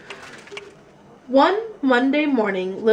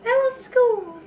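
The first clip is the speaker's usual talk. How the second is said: put-on gushing little girl; 13 semitones higher than usual. Lily gushing about school.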